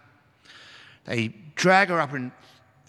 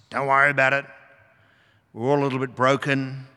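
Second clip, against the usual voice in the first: lenient Jesus; faster than usual. Pretend. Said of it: "He could go for license".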